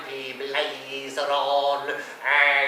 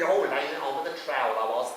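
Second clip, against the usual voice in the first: ordinary delivery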